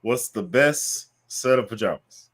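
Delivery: slow, deliberate friend impression; drawn-out, weighty question voice; Lobster impression. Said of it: "You also have to look side to side as you say that sentence".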